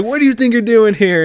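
loud, high-pitched challenge; mock confrontation. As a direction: get in his face, imitating a thug. Thug confronting Paul Walker, retold.

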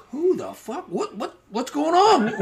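high, slow confused cry with a laugh; mock bewildered. Teller reenacts facing the gang, high baffled laughing cry. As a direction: play the baffled shout, half laughing.

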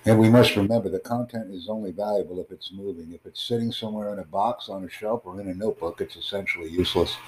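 ordinary talk, nothing marked

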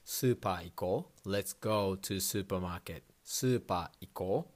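"super iko" as su-pa-a i-ko; スーパー行こう; Japanese pronunciation. Shown as a demonstration. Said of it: "when you hear super".

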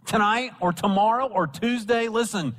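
high, driving pulpit delivery; impassioned preaching. Real, not acted. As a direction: pile up each phrase with rising urgency. Preacher exhorting the congregation.

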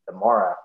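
the morra with a clipped final a; Northern Irish the morra for tomorrow; colloquial the morra. Shown as a demonstration. Explaining the Northern Irish word, colloquial. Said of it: "more colloquially".

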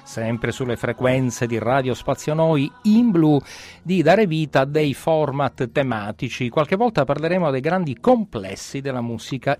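freed and talking loud; loud burst. Acted. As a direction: project it out, energized. Freed host bursts out loudly.

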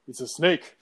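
lightly put-on movie-character accent; a hint of a movie accent; Indiana Jones movie accent. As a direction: quote the film line with a slight accent. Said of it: "Did you just say that with an accent?".

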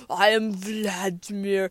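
low, lightly imitated Russian accent; thick Russian accent. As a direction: put on a Russian stranger's accent. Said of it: "really thick Russian accent".

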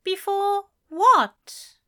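high, slow puzzled question; puzzled angel. Acted. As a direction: ask slowly, puzzled. Aziraphale confused.

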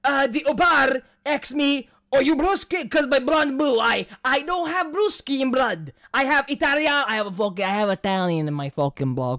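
loud, hammed-up Russian accent; loud mock Russian accent rant. Shown as a demonstration. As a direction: bellow it like a gruff Russian cab rider. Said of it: "Russian is, like, the easiest".

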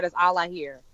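ordinary talk

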